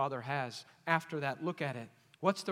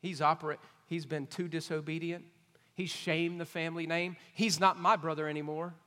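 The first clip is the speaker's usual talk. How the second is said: put-on mad older brother; 3 dB louder than usual. Older son disowning his brother to father, bitter and loud. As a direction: spit out this son of yours. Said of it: "he's mad at his brother".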